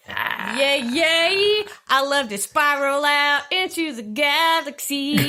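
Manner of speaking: high, slow sing-song cheer; bright magical girl. Acted. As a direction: chirp it like a magical heroine.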